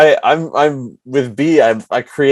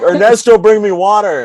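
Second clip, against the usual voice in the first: high, raised summoning voice; calling a servant; 9 semitones higher, 4 dB louder than usual. Retold or imitated. Imitating B yelling for Ernesto to bring water, high and loud. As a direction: call out to the imaginary helper. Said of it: "And she'll be like".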